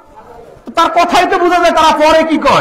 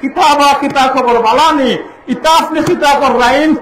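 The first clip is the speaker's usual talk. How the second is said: put-on Sylheti accent. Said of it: "সিলেটে আসলে".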